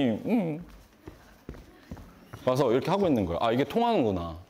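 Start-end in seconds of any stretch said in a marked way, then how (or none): 0.0-0.6 put-on little "음" of a pouting kid; imitated sulky child's hum. Dad imitating daughter pouting, sulky hum. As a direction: hum like a child who's upset. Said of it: "이러더니".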